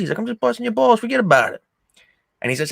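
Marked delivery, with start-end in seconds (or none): 0.2-1.6 high-pitched mock apology; imitated placating. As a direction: play brushing off an offence. Acted bar argument, placating.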